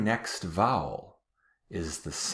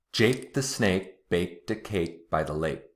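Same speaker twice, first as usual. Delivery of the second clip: a little quicker. Shown as a demonstration. Teacher saying the tongue twister a bit quicker. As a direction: run the twister together a bit faster. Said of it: "I'm gonna say it a little quicker now".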